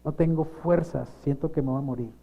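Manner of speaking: imitating a worn-out, pleading prayer; retold crying surrender. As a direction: re-enact giving up to God, repetitions sinking away. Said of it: "solamente a llorar y decirle".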